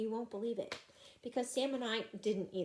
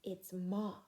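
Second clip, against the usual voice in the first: whispered; 5 dB quieter than usual. Acted. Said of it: "I said".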